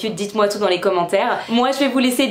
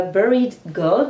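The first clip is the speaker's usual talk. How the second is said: slow English name in a French accent; self-mocked "super" English accent, drawn out; 3 dB louder, much slower than usual. Real, not acted. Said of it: "Vous connaissez mon super accent anglais".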